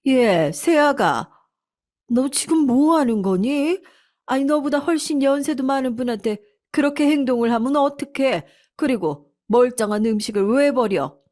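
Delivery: mother-in-law scolding her rude daughter-in-law; stern mother-in-law. A narrator's reading. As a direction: scold her for throwing food.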